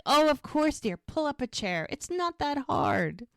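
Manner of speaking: high, airy ladylike encouragement; mock sweet welcome. Liddy inviting Mel to learn sewing, sweetly welcoming. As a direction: play a sugary hostess, pitched well up.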